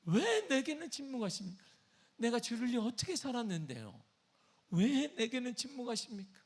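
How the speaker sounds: high, pleading lament; impassioned complaint, demanding to know why; David's anguished cry. Acted. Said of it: "다윗은 이 말을 하고 있는 거예요".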